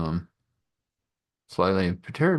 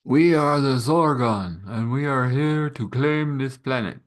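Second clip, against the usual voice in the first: alien invader; 4 semitones higher than usual. Acted. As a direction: announce the conquest like an alien overlord. Alien invaders announce conquest.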